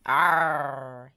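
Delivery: drawn-out pirate "arr"; playful pirate cry; pirate growl. A narrator's reading. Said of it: "he cried".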